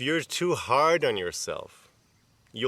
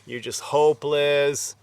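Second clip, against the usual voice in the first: harsh self-talk. Retold or imitated. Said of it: "really harsh talk with yourself".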